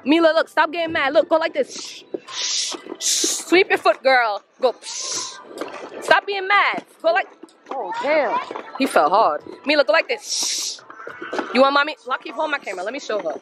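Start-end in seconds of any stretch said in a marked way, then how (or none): 1.7-3.2 soft breathy shush to calm her. Real, not acted. Hushing upset child. 4.8-5.4 soft breathy shush to calm her. Real, not acted. Hushing upset child. 10.3-10.8 soft breathy shush to calm her. Real, not acted. Hushing upset child.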